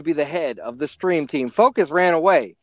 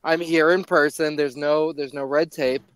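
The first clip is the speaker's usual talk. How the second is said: lisp; 3 semitones lower than usual. Acted. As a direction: lisp every S sound. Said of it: "Why do you have a lisp?".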